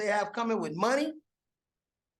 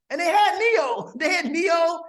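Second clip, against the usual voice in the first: excited; 8 semitones higher, 4 dB louder than usual. Real, not acted. Excited retelling Vegas launch.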